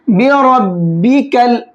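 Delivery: slow बि और बी कल with the ra of बी कल thick; tajweed demo, heavy ra. Shown as a demonstration. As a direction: read बी कल with a full, heavy ra. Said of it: "यहाँ पर रा को मोटा करके पढ़ेंगे".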